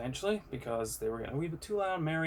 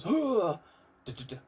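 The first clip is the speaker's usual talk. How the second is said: imitated awful noise; 6 semitones higher, 4 dB louder, slower than usual. Telling viewers about a noise from the bar, imitating it. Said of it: "all I hear is this awful noise".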